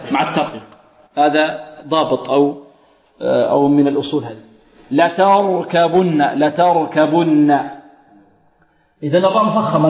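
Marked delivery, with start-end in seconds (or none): 4.9-7.6 light, thin "ta" in لتركبن, drawn out slowly; تاء مرققة. Shown as a demonstration. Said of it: "نرقق التاء". (تلاوة متأنية بترقيق التاء في لتركبن)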